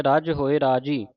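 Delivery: ਰੱਜ said tight and firm, with stress. Shown as a demonstration. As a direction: clip ਰੱਜ hard. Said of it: "ਰੱਜ ਪਾਠ ਕੱਸ ਕੇ".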